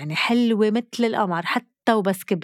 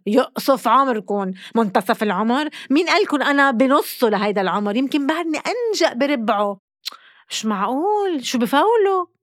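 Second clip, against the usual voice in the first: arabic mother scolding; 4 semitones higher than usual. Real, not acted. Outraged at the article's claim.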